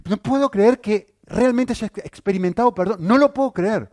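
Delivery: a hammed-up convert who can't believe his pardon; preacher voicing Simón's imagined amazement, mock disbelieving; imitating amazed convert. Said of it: "¿Está asombrado que no".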